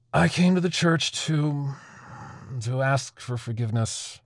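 struggling to get it out; halting confession. Acted. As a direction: confess it haltingly, with long hesitations.

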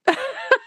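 short high burst of laughter. Real, not acted. Teacher finishing funny story, short high laugh. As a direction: let a high laugh break out.

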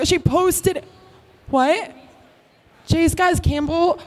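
ordinary talk

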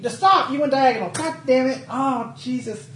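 high-pitched, worked-up protest; driven-crazy outburst; exasperated. Real, not acted. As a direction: plead in comic despair, pitch climbing. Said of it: "You're driving me crazy".

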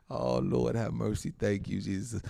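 ordinary delivery

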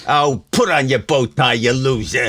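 Archie Bunker. Retold or imitated. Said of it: "bring out Archie Bunker".

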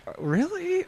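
high, soft sarcastic really; dismissive villain sneer; sarcastic vampire king. Retold or imitated. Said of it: "he was really sarcastic for a vampire king".

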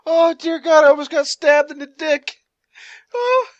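shocked. Real, not acted. Knife nearly fell in lap.

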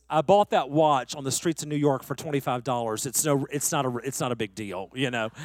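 low, soft, hushed phone voice; real quiet. Retold or imitated. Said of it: "he gets real quiet".

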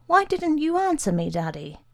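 put-on high-pitched, plaintive boy; small high voice, reproachful; upset child. A narrator's reading. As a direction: question Daddy like a hurt, frightened child. Upset boy questions his father.

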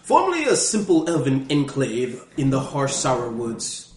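put-on British scholar reading a guidebook; hammed-up British guidebook narration; silly British accent. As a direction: read it out in a mock-British narrator voice. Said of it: "I'm using a British accent".

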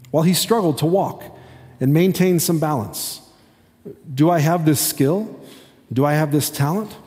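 rhyming picture book read aloud; reading to children. Acted. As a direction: read the verses as a gentle storybook.

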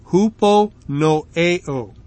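huponoeo drawn out slowly, part by part; careful pronunciation. Shown as a demonstration. Preacher repeating his attempt at the Greek word, careful pronunciation. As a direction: slowly sound out "huponoeo" as HOO-po no-AY-oh. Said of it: "that's not a good pronunciation".

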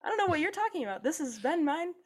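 high posh British accent, mocking; a pompous British settler claiming the land; mock British colonizer. British accent. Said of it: "I have a British accent".

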